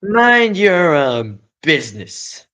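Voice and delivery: high, loud, slow rat shriek. Acted. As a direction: screech it like a furious rat. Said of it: "shrieked the rat".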